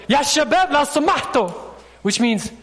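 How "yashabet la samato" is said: raised, higher-pitched call to a group; yelling for attention. Retold or imitated. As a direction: call out over a noisy crowd. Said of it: "and I'll yell at them".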